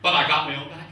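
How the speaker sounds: punchline said out loud and strong; first hit of the joke, loud and proud; punchy first take. Real, not acted. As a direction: land the line full voice to the room. Punchline then quiet repeat.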